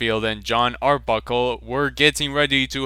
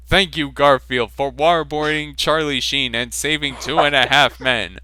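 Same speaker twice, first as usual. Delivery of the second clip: grateful Obama; 4 semitones higher, faster than usual. Acted. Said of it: "said President Obama with gratitude".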